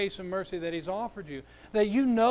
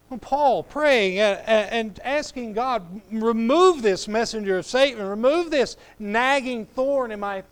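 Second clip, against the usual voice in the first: fervent preaching; 3 semitones higher, 7 dB louder than usual. Acted. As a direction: preach it out with full force. Preaching at full force.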